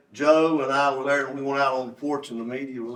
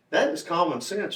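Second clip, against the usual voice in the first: "common sense" stated firmly, with raised pitch; emphatic; 4 semitones higher than usual. Real, not acted. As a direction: drive home "common sense" as an obvious truth. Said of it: "I want to emphasize the word common sense".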